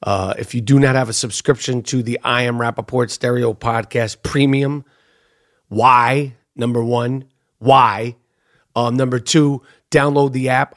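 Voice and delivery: low, measured host plug; podcast subscription promo. Real, not acted. Host selling premium subscription to listeners, low deliberate pitch. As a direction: lay out the offer in a low, deliberate voice.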